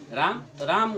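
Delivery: राम with आ held long; stretched vowel. Shown as a demonstration. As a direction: hold the आ of राम for three beats. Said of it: "ये आ कर ही ज़्यादा देर तक बोलेगा". (राम में आ को तीन मात्रा तक खींचना)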